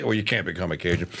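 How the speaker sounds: ordinary talk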